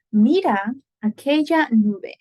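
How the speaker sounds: teacher modelling "Mira aquella nube" deliberately; slow model sentence. Shown as a demonstration. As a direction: sound out "Mira aquella nube" slowly for students. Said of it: "That's a perfect example".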